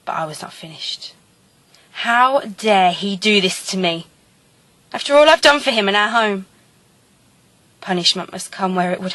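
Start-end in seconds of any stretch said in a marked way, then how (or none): 1.9-6.5 scorned wife, swelling with indignation; wronged wife's outrage. Acted. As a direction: build from measured fury into a betrayed cry. Jilted wife's outraged outburst.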